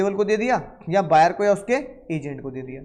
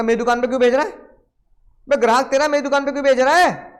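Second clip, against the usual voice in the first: louder and higher, indignant scolding; mock angry retort; 6 semitones higher, 5 dB louder, faster than usual. Seller indignantly scolding the buyer over the shop, louder and higher. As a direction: fire it back at the cheeky buyer.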